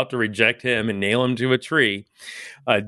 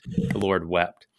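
slow solemn repeat; 5 semitones lower, slower than usual. Shown as a demonstration. Host translating the chapel name, slow and hushed. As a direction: lay each word down slowly. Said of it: "which means just simply".

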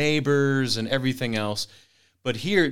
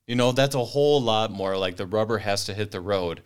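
ordinary delivery

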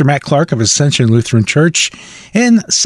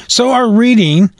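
slightly wheezy, chesty voice. Real, not acted. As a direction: talk through a wheezy chest. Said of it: "sorry if I'm sound like I'm wheezing".

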